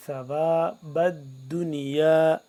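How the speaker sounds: ثواب with tongue slightly out between the teeth, soft ث; ثواب الدنیا with a gentle th sound; soft tha. Shown as a demonstration. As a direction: push the tongue out a little for the ث in ثواب. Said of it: "زبان کو دانتوں کے درمیان سے ذرا باہر کی جانب نکال کر".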